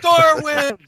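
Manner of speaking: very high, loud drawn-out cry; mock scream. Joking about whom an atheist calls on, high mock scream. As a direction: belt it out like a pretend plea for rescue. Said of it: "maybe you start screaming".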